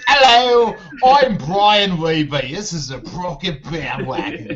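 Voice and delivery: high, stretched-out announcer greeting; slow hammed-up show intro; mock radio host intro. Shown as a demonstration. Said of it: "Maybe it should be something like".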